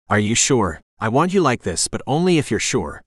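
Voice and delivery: a touch of rasp, breath barely held; lightly raspy, fighting to keep his breathing steady. Acted. Trevor asks Dom if she's sure, lightly raspy. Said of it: "my voice is raspy when I speak".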